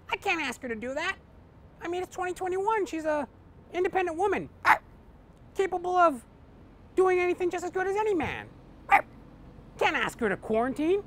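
dog asks his owner for a favor; talking dog. Acted. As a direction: plead like a loyal old pup. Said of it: "Patches goes".

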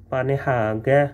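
"पाने हागे" with a rising end; Norwegian word demo. Shown as a demonstration. Teacher models the Norwegian word for kindergarten, clearly. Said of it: "kindergarten को पाने हागे कहते हैं".

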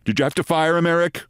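imitated nasal Long Island boss; lightly voiced nasal Long Island accent. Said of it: "Wright asked in his nasal Long Island accent".

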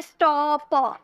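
स्टॉप drawn out in pieces, sto... p; स्टॉप said haltingly, the p on its own; broken apart. Shown as a demonstration. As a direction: split स्टॉप into separate sounds. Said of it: "अलग अलग करके तो नहीं".

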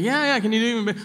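high, eager mock director; mock director, pushing.

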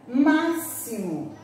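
"Máximo" devagar, X como S; slow máximo. Shown as a demonstration. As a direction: diga "Máximo" lento com som de S. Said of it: "O X com som de S". ("Máximo" pausado com S)

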